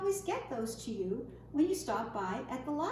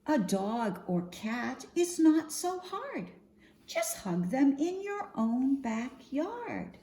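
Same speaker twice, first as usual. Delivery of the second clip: lively, sing-song picture-book reading; expressive storytime voice for little ones; reading to children. Acted. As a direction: read the rhymes out to a group of kids.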